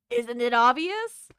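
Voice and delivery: a hint of a creaky old man; lightly voiced old geezer. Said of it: "I love your old man voice".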